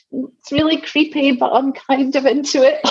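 half scared, half delighted; thrilled whisper of fear. Retold or imitated. Telling of her tarot card, high and thrilled. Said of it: "And I'm just like".

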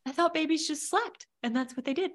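laughing through tears, high; teary laugh. Real, not acted. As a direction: voice cracking between a laugh and a cry.

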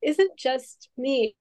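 slow, teary voice; holding back tears, slowly. Real, not acted. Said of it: "I get teary".

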